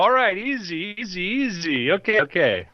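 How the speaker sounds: high-pitched soothing, easing down; mock-nervous bro pleading for calm; alarmed placating. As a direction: talk down an armed threat in a high voice. Steve backs off from threat.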